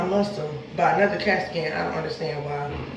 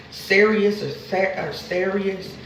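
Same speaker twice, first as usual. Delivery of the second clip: talking around a bite block; slower than usual. Real, not acted. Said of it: "I got this bite block. It's hard for me to talk".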